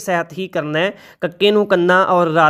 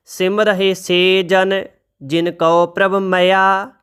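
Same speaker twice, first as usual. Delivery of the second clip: slow, measured reading of sacred verse; scripture recitation; slower than usual. Shown as a demonstration. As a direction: recite each line slowly and reverently.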